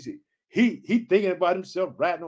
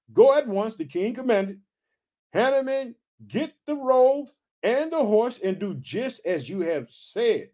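scripture reading; 3 semitones higher, slower than usual. A narrator's reading. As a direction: read the verse out to the congregation, voice raised in pitch. Reads scripture aloud.

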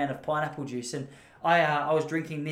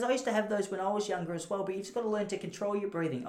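put-on kindly old lady; 5 semitones higher, 5 dB quieter than usual. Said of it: "She goes".

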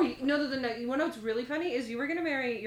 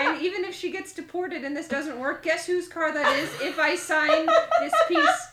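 laughing; 5 semitones higher, 7 dB louder, slower than usual. Retold or imitated. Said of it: "I'm like".

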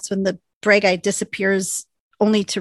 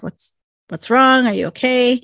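freaking out; 4 semitones higher than usual. Retold or imitated. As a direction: sound alarmed, a touch of panic. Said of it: "she's starting to freak out".

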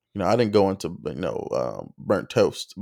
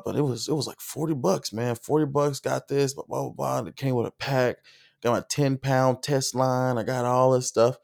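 Southern twang; 4 semitones higher, 3 dB quieter than usual. Retold or imitated. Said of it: "That, that twang comes out".

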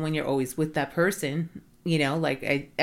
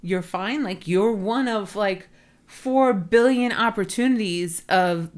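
incredulous challenge; 4 semitones higher than usual. Retold or imitated. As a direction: push back on the word fine, stunned. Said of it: "And she says".

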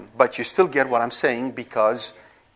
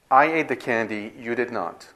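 conflict, contrasting. Shown as a demonstration. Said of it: "say its opposite".

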